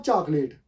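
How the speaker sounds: चॉकलेट read off the spelling with a long final "lait"; common mispronunciation. Shown as a demonstration. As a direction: say चॉकलेट as "chaak-LAYT". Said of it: "spelling को लेके पढ़ेंगे तो".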